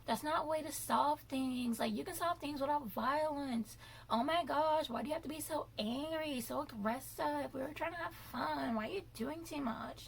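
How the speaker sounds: mocking catty models. Mimicking the other models scolding her. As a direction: sneer it like prissy housemates. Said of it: "some other models on the show that were just like".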